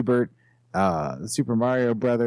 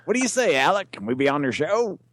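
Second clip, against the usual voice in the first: Canadian game show host voice; hosting Jeopardy like Alec Trebek; Alec Trebek impression; 5 semitones higher than usual. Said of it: "I like the Canadian accent".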